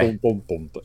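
low vocal drum booms; imitated drum beat. Shown as a demonstration. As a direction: mouth the drum intro. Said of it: "the drums are like".

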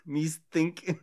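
lightly mock-Irish; clumsy fake Irish lilt; Irish accent attempt. Friend judging the attempts, playful Irish accent. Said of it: "tried to talk in an Irish accent".

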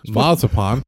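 marzipan said without the R, mahz-uh-pahn; Austrian German pronunciation. Shown as a demonstration. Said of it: "I'm pronouncing it the traditional Austrian German version".

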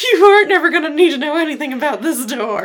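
cheery sinister host showing around; Jaguar impression. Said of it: "I love your Jaguar impression".

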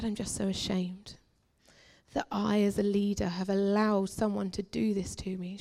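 soft, subdued admission; retold ashamed confession. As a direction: quietly re-enact confessing shame. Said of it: "I just burst out into tears".

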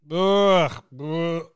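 pained, watery-eyed groan; eyes watering from burn. Real, not acted. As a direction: groan through the burning aftertaste. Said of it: "My eyes are watering".

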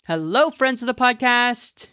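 rising, carefully said PODCAST; carefully enunciated greeting. Shown as a demonstration. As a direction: say PODCAST with care, minus the southern twang. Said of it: "laughing at how I said it".

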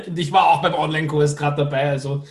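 talking through real laughter; laughing while remembering the online course. Real, not acted. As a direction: giggle through the words.

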